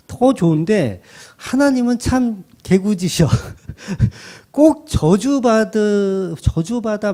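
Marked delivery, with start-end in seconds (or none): 3.3-4.1 light, breathy chuckle; amused little laugh; short chuckle. Real, not acted. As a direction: chuckle briefly at your own remark. Chuckles after calling God playful.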